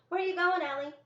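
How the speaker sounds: put-on high, loud child's call after his sister; a small boy shouting down the path; little brother calling. Little brother calls after Ellie as she leaves, high and loud.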